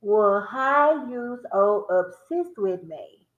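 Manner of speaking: drawn out slowly; slow again. Shown as a demonstration. Checking pronunciation for viewers, slow. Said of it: "did I say it right?".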